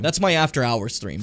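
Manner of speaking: ordinary talk, nothing marked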